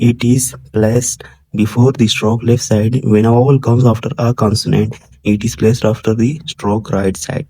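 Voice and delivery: slow, deliberate reading from the book; textbook reading. Acted. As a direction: read each English word out slowly for the class. Reads English textbook aloud slowly. (किताब से धीरे-धीरे पढ़ना)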